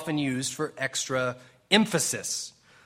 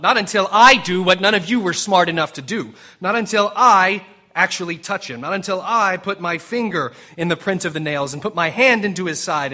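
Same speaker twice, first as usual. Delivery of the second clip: defiant Thomas; 3 semitones higher, 6 dB louder than usual. Acted. Doubting Thomas refusing the others, loud defiance. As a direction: voice rising louder in stubborn refusal. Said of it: "Thomas is probably thinking".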